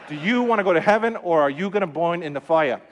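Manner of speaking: put-on childlike pronunciation, blunt little question; imitated five-year-old daughter. Father replaying his daughter's question to her uncle, imitated child. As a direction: lightly mimic a small child, "fiya" for fire. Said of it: "That's exactly how she said it".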